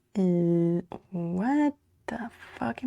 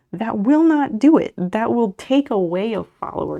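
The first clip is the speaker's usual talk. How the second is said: firm loud correction; 3 semitones higher, 6 dB louder than usual. Real, not acted. Correcting chat member firmly.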